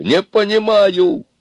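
very high, drawn-out cry; hysterical. A narrator's reading. Аристарх breaks down under questioning, hysterical. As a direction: wail it in rising hysteria. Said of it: "кажется, начиналась истерика".

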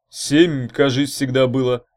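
wary answer, suspecting a catch; guarded reply; cautious, suspicious. A narrator's reading. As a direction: answer carefully, smelling a trick. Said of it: "осторожно ответил тот".

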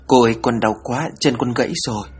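a hint of a ghost child whimpering; possessed medium speaking as a hurt little girl, pleading; shrill child voice. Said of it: "the thé như trẻ con".

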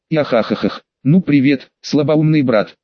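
sneering demon with a twisted laugh; distorted demonic voice. Acted. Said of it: "раздался надменный искажённый голос во тьме".

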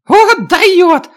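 high, breathy dwarf gasp; impressed dwarf. Acted. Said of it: "выдохнул карлик".

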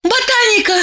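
high, bold blurt; high girlish blurt of the name. A narrator's reading. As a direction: spit it out all at once. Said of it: "набралась храбрости и выпалила".

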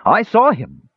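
high, loud insistent cry; indignant loud high-pitched claim; insisting. Acted. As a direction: insist hard against the doubters. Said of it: "insisted the youth".

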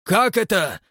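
loud, slow growling demand; menacing growl. A narrator's reading. Father growling at his son, menacing. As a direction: growl it out, threatening. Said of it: "прорычал страшным голосом".

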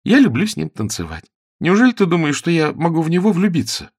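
put-on high, lively girlish voice, coaxing; young actress. Sue reassures jealous Ronnie, girlish and coaxing. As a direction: talk him out of his jealousy, lightly.

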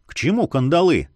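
ordinary delivery, nothing marked

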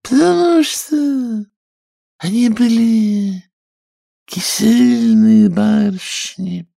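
high, squeaky storyteller mouse; a tiny creature spinning a tale; sleepy Dormouse voice. Acted. Dormouse telling Alice her tale, squeaky and high.

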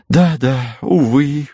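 a touch of a sigh; sighing regret. A narrator's reading. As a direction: sister sighing with regret over the soldier. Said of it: "вздохнула сестра Гиацинтова".

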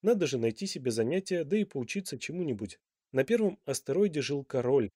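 usual speaking voice

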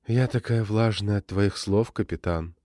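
lightly voiced sweet seductive woman; sweet voice of Mara. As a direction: coo it sweetly, a hint of seduction. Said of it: "сказала она сладким голосом Мары".

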